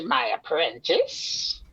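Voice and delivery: low slow witchy purr; Edna voice. Acted. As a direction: drop low and drawn out like a witch. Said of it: "This should be like an Edna voice".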